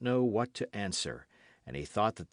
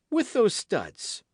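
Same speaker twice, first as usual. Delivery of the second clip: much higher, louder, slow pointed question; pointed king; 12 semitones higher, 6 dB louder, slower than usual. A narrator's reading. King pressing the queen about the studs, pointed. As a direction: lean hard on every word.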